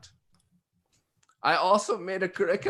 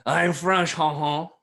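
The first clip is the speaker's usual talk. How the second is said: hammed-up French accent, higher and louder; mock French accent; 3 semitones higher, 4 dB louder, slower than usual. Host doing a bit as a Frenchman, mock French accent. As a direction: put on a joke French accent. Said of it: "anybody that's French or German. I'm just doing a bit".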